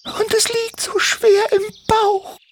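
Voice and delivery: sehr hohe, piepsige Vogelstimme; piepsig. Acted. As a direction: wie eine kleine kranke Drossel piepsen. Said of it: "piepste Doris leise". (Drossel Doris antwortet Timmy, hoch piepsend)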